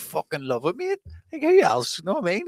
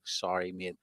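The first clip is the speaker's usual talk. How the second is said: polite voice; 6 semitones lower, 5 dB quieter than usual. Retold or imitated. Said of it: "And I'm like".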